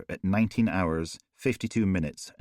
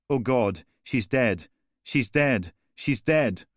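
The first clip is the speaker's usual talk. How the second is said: climbing higher with each she's dead; rising horror; 4 semitones higher, slower than usual. Acted. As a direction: shock turning to hysteria. Young woman finds the body.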